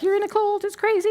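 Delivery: mock accusation. Parents telling their young people off, mock-alarmed. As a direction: imitate alarmed parents, pitched high.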